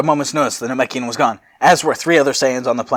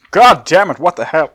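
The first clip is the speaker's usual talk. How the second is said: loud, high raspy outburst; raspy shout; 5 semitones higher, 8 dB louder than usual. Acted. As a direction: shout it rough, breaking into laughter. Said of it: "A raspy voice shouts".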